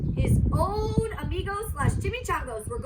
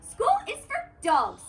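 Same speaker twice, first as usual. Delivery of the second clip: emphatic mama; 9 semitones higher than usual. Acted. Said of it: "stated Mama Junebug Jones empathetically".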